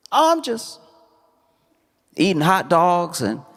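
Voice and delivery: lightly voiced little kid; casual child answering. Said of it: "the kid is like".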